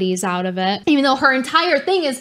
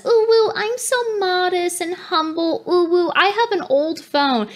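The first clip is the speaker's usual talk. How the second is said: higher, fake-modest coo with a laugh; mock humble voice; 6 semitones higher than usual. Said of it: "That's what Eliza does".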